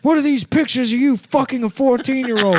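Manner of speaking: high, loud accusing boss; angry boss. Acted. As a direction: burst in and accuse him. Boss bursts in, noir parody.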